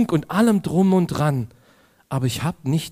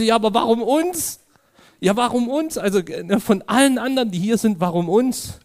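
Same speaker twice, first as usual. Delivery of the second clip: baffled protest; 8 semitones higher than usual. Retold or imitated. Protesting to friend at stop.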